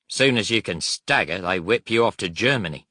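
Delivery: a touch of bitterness; a little bitter. Acted. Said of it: "Willie answered a little bitterly".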